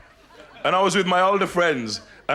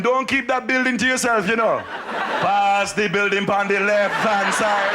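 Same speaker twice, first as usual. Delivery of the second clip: neighbouring villager; 3 semitones higher than usual. Retold or imitated. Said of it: "The neighboring village is there going".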